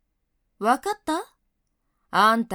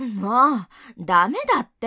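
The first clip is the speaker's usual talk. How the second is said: loud, flustered pushing-away cry; flustered protest; 5 dB louder, faster than usual. Acted. Senior loudly fending off her clinging junior. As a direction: shove him off with a loud fluster.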